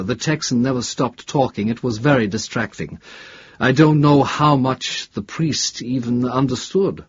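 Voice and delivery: a touch of the preoccupied academic; lightly voiced professor. Professor questioned about fellow bus passengers, lightly voiced. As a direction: lightly play a professor explaining himself. Professor explains his inattention.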